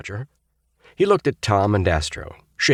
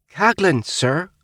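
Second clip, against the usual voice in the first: nervous gulp, higher; 12 semitones higher, 3 dB louder, slower than usual. A narrator's reading. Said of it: "gulped the boy".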